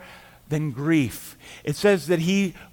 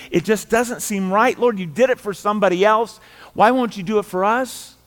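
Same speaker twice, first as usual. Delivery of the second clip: questioning crowd; 4 semitones higher, 4 dB louder than usual. Acted. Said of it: "the others are questioning this too".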